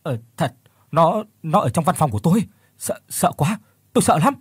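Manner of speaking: terrified employee begging his boss to believe him; frightened stammer. Acted. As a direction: climb into panic as you admit the fear. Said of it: "giọng nói run rẩy của Phước".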